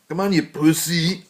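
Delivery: mocking impression of an irksome line reading; mimicking actor's delivery. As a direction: mimic the actor's odd emphasis on "pussy". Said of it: "the way he says the word pussy".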